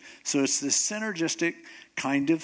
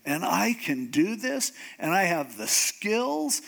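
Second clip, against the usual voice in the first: mock indignation. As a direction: play mildly offended, stretching the key words. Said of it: "would have really made me mad".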